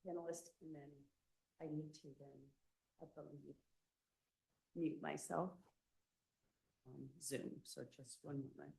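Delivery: softly, half to oneself; not loud enough. Real, not acted. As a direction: let the volume drop while busy. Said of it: "Louder, please".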